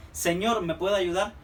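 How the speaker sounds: slow, respectful courteous tone; polite formal address. Retold or imitated. Example of respectful speech to a stranger, slow and courteous. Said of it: "Es como decimos nosotros".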